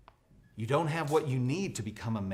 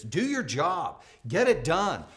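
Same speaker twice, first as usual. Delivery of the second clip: coach order; 3 semitones higher, 5 dB louder, slower than usual. Retold or imitated. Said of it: "Bill Belichick that said that".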